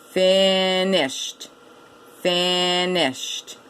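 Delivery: FINISHED stretched into two beats, FIN-ISHED; by syllables. Shown as a demonstration. Teacher showing two syllables, FINISHED as FIN-ISHED. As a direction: hold the first half of FINISHED, then "isht". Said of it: "but two syllables".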